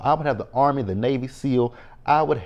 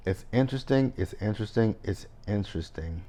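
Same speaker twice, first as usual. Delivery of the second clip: fading repeat; 5 dB quieter than usual. Shown as a demonstration. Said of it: "repeats it, fading".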